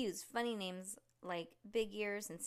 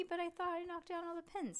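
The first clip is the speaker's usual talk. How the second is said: puzzled high protest; 10 semitones higher, faster than usual. Acted. Judy confused by turkey.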